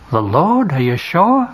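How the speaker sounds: can it really be him; surprised question. Acted. Peter asks John in the boat, surprised. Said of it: "asks Peter".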